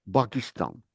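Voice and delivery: "বাকিস্তান" with b instead of p, said low and soft; Arab speaker's "বাকিস্তান", p turned to b; Arabic way. Shown as a demonstration. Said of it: "তারা পাকিস্তানকে বলে".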